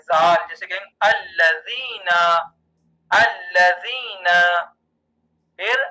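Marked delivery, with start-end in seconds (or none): 1.0-4.2 الذین syllable by syllable, long "zee"; slow, drawn-out الذین with tongue-tip z; zaal demonstration. Shown as a demonstration. Teacher showing zaal in a word, slow الذین. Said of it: "زبان کے پہلے حصے سے پڑھا جاتا ہے".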